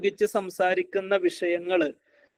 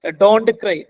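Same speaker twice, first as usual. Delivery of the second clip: louder mock order; wrong-way command; 3 semitones higher, 6 dB louder than usual. Shown as a demonstration. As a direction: demonstrate a parent's loud command. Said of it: "എന്ന് പറയുന്നതിന് പകരം".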